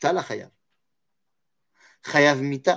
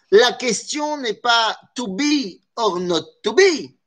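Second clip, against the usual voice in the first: slow, higher, showy mock English accent on "to be or not to be"; 5 semitones higher, slower than usual. Shown as a demonstration. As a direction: ham up an English accent like a proud actor. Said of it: "vous remarquez ici mon accent extraordinaire". (accent anglais exagéré pour plaisanter, plus lent et plus aigu)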